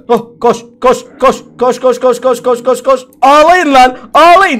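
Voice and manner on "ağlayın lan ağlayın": loud gleeful taunt. Real, not acted. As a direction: jeer at the losers. Taunting enemies after escape.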